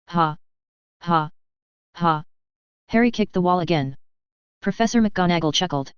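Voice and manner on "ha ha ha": bitter laugh. Acted.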